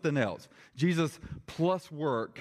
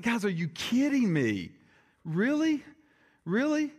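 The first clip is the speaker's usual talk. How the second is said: exasperated, incredulous, voice jumping high; high-pitched disbelieving "are you kidding me"; Paul; 8 semitones higher than usual. Acted. Preacher voicing the apostle fed up with the church, exasperated. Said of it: "He's really exasperated with the church".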